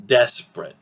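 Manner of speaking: "Desperate" squeezed to two syllables; reduced pronunciation. Shown as a demonstration. Teacher repeats the word for learners, "Desperate" as DES-prit. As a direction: drop the middle vowel of "Desperate": DES-prit. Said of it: "Two syllables".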